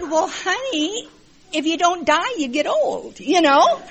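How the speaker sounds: loud, high, laughing through the words; laughing reply. Retold or imitated. Grandma laughing as she answers her grandson. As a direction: tease him gently while cracking up.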